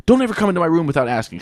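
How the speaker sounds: mother lightly scolding her son for not knocking; mild scolding. Retold or imitated. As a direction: snap at the boy for barging in, lightly. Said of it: "she immediately scolds him".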